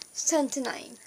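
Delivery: a hushed aside to herself, just air; quiet unvoiced whisper of surprise. Real, not acted. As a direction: whisper it under the breath, unvoiced. Late-night vlog, quietly checking time.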